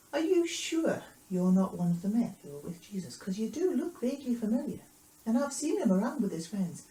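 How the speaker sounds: put-on lilting, suspicious girl's questioning; persistent young girl. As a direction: press the point with swooping pitch. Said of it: "the young girl came back and".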